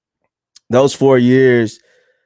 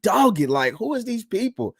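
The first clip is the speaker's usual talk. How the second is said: incredulous; 8 semitones higher, 4 dB quieter than usual. Retold or imitated. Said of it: "I'm like".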